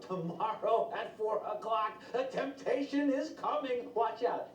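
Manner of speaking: lightly voiced high announcer, slow start; a hint of a public notice voice; mock announcement. Preacher mocking a temptation announcement, mock announcer voice. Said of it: "It never shows up like this".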